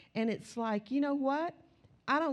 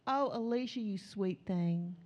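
tender. Shown as a demonstration. Fond greeting of a friend.

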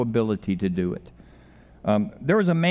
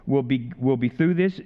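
higher-pitched "Missy", mildly coaxing; patient mother; 3 semitones higher than usual. Retold or imitated. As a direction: lightly imitate a patient mother. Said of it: "And the mother said patiently".

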